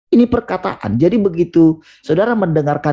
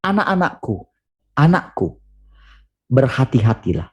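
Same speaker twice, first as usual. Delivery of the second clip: tender fatherly call. Shown as a demonstration. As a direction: call them gently, like a loving father. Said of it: "dia tidak mengatakan". (panggilan lembut seorang bapa)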